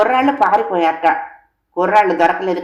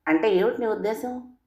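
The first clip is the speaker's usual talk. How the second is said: irritated; 3 semitones higher, 7 dB quieter than usual. A narrator's reading. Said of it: "చికాగ్గా అడిగా".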